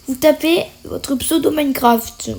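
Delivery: cracked, hoarse voice. Real, not acted. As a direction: voice giving out, hoarse. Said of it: "j'ai la voix cassée".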